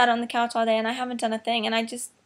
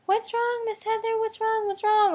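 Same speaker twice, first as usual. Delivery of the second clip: imitated worried kids; 10 semitones higher than usual. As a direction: pipe up like little kids pestering teacher. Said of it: "I don't want the kids to be like".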